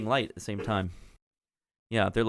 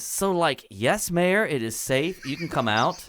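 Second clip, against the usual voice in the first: put-on valley girl gnome; 4 semitones higher than usual. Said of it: "And Clotilda says".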